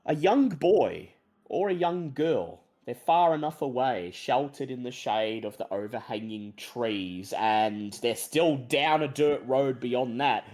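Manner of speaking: low, measured storyteller voice; game master narration. A narrator's reading. Game master sets an eerie swamp scene for players, storytelling voice. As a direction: draw out the eerie description, easing down at line ends.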